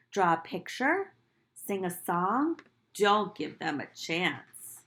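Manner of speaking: put-on gentle read-aloud to children; storybook reading. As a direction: read it like storytime for little kids. Teacher reads picture book aloud.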